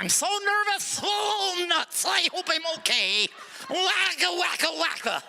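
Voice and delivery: high, fretful stereotype voice ending in a shouted wacka; mock nervous Jew. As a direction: ham up a jittery worrier. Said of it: "nervous Jews walking around".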